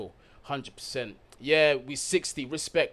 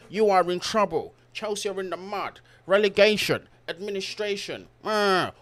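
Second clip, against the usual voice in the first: higher, louder whiny doomsaying; mock wailing; 6 semitones higher, 3 dB louder than usual. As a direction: mimic rival fans moaning in exaggerated panic. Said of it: "other teams are just crying tears".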